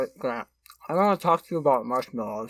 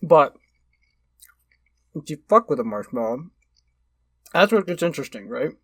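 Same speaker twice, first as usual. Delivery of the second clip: mouth full. Real, not acted. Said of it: "I'm gonna talk with my mouth full".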